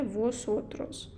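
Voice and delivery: «восотрос» said slowly, each syllable clear; drawn out slowly so learners catch it; teacher introducing the pronoun slowly; slow model word. Shown as a demonstration. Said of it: "Наступна особа — це".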